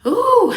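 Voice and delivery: high loud ooh squeal; excited squeal. Retold or imitated. Racing over to mom.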